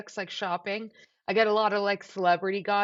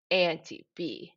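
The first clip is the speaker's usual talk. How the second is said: put-on slow, lower, scandalised child voice; shocked little nephew; 3 semitones lower, slower than usual. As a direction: drag it out like a shocked five-year-old. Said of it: "he looks up and goes".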